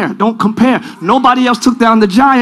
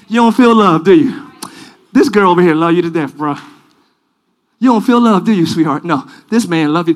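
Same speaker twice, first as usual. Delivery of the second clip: lightly acted, lower-pitched sweet talk; sweet-talking tempter; 5 semitones lower than usual. The flesh coaxing someone who feels unloved, low sweet talk. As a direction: slip into a low tempter's patter.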